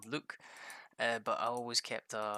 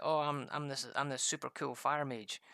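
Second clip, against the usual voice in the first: mock boastful player; 4 semitones higher than usual. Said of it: "and he was like".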